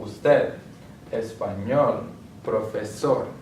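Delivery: "Usted, español, profesor" stressed on TED, ÑOL, SOR; final-syllable stress. Shown as a demonstration. Teacher giving examples of agudas, "Usted, español, profesor" stressed on last syllable. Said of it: "going to be on the last syllable".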